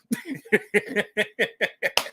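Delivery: high rapid giggle; chuckling laugh. Real, not acted. Host tickled by his own guarantee, giggling. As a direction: burst of rattling chuckles.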